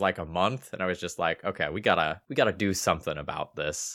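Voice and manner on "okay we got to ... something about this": ordinary talk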